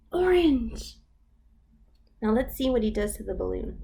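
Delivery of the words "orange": excited gasp. Acted. Excited reveal.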